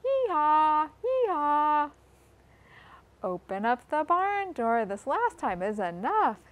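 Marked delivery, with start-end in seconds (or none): 0.1-1.9 a playful mock bray, held up; hee-haw it like a donkey for the kids. Donkey sound for the children, a playful bray. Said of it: "donkey in the barn saying".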